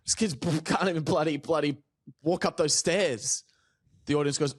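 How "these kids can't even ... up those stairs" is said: bumbling character. Retold or imitated. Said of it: "I enter a character".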